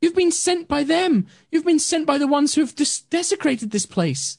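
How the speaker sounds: an angry nature spirit confronting intruders; unearthly voice. Acted. GM continues spirit voice.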